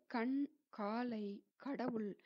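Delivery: கண், காலை, கடவுள் with unaspirated k; light k. Shown as a demonstration. Teacher giving examples, கண், காலை, கடவுள் with light k. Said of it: "அந்த மாதிரி ப்ரொனவுன்ஸ் பண்ணணும் லேசாக".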